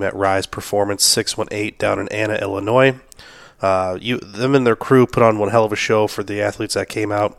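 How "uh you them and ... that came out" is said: sick, hoarse voice. Real, not acted. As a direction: speak through a sore, hoarse throat. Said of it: "If you can't tell by my voice".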